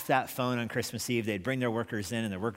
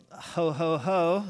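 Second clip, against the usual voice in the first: Santa ho ho ho; 6 semitones higher, 4 dB louder, slower than usual. Retold or imitated. Colonel plays Santa for child.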